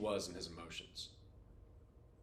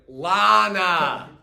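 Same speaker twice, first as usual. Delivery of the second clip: louder mock British insistence; mock British lady; 5 semitones higher, 15 dB louder than usual. Retelling the comedian bit, the lady insists on her name. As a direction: correct him in a put-on British voice. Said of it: "She's like".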